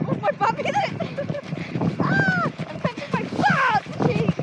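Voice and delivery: high giggling through the words; laughing. Real, not acted. Laughing while sliding.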